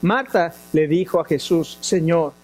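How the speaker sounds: measured, even Bible-reading voice; scripture reading. Acted. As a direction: read the passage steadily to the congregation. Reads scripture passage aloud.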